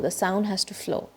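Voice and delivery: whispered, slow "flow"; whispered lesson close. Shown as a demonstration. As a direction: breathe the words out softly.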